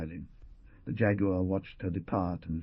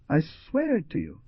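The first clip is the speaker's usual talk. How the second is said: put-on young woman voice; 9 semitones higher, 3 dB louder than usual. Young woman swears to Jaguar.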